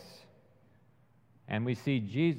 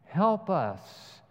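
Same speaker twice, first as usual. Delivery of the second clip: earnest plea; slower than usual. Acted. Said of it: "we are crying out".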